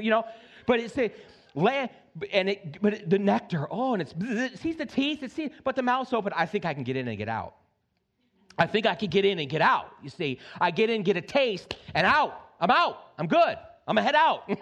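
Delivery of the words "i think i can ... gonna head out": lightly voiced cocky fly, sneaking in and out; the fly talking itself into it, breezy; playing the fly. Pastor voices greedy fly thinking.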